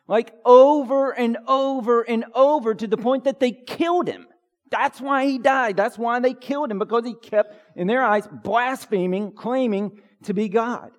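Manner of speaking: high, loud preaching push; preacher rising to a passionate climax; emphatic preaching. Real, not acted. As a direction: drive the point home with fire.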